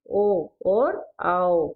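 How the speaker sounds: slow, stretched aa; long vowels drawn out. Shown as a demonstration. Teacher stretching long vowels for the class. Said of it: "जोर लगाकर बोला जाता है".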